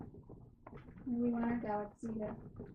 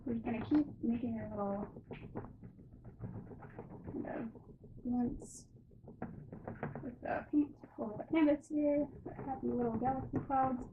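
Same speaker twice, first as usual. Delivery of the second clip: lightly imitating a gentle TV painter; Bob Ross voice; 2 semitones higher, 3 dB quieter than usual. Painter voicing Bob Ross to her viewers, a light hint of his calm. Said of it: "I think I'm Bob Ross".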